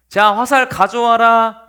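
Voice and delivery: slow, loud command; called-out order. Acted. Prince sending his servant for arrows, calling out. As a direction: call across a field to a servant.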